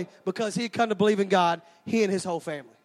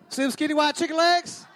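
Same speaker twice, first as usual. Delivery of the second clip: shouted show-off; 5 semitones higher than usual. Real, not acted. Preacher showing his legs to the congregation, shouted. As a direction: show off your legs to the back rows with a shout.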